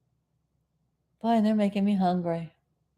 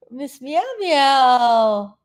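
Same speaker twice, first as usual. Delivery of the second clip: drawn-out greeting; much slower than usual. Real, not acted. Greeting a viewer in the chat, slow and drawn out. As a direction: stretch the name out slowly, sing-song.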